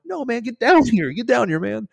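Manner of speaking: high, strained holler to a far-off friend; urgent re-enacted yell; shouting back. Injured jumper to the waving cadet, shouting back.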